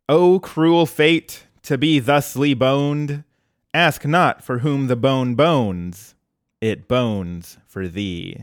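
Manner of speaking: slow, grand tragic recitation; dramatic monologue. Pretend. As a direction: declaim it like a ham Shakespearean actor. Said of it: "I'm gonna read that good monologue".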